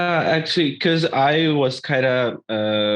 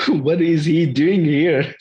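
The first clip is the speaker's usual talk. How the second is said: baffled retort; 5 semitones higher, 4 dB louder, slower than usual. Retold or imitated. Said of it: "I was like".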